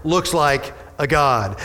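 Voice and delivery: slow, drawn-out wonder; king slowly describing the fourth figure; awed slow telling. Retold or imitated. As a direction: spell it out slowly in awe. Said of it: "Nebuchadnezzar shouted".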